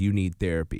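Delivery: mock bitter, angry, accusing tone. Retelling what a former manager said on Mad Day: imitating an angry manager. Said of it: "she said in an angry tone".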